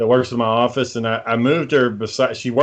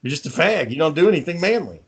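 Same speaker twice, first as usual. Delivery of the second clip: higher-pitched mock berating; retold insults; 4 semitones higher than usual. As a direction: imitate a wife belittling her husband. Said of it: "she said that she would call him".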